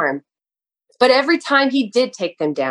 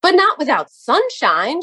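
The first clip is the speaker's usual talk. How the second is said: excited shout; 6 semitones higher than usual. A narrator's reading. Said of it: "shouted the nursery gardener".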